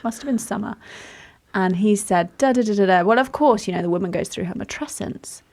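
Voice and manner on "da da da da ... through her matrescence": imitating an offhand remark, quicker at the end; casual, matter-of-fact. Doctor casually mentioning it in an interview, matter-of-fact. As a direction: toss it off as common knowledge. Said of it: "he said it like you would say".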